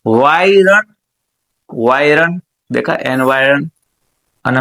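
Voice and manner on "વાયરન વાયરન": વાયરન as a separate drawn piece; sounded out. Shown as a demonstration. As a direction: dictate વાયરન by itself, every sound clear. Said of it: "બોલતા બોલતા લખવાનું". (વાયરન છૂટું પાડીને, ધીમેથી)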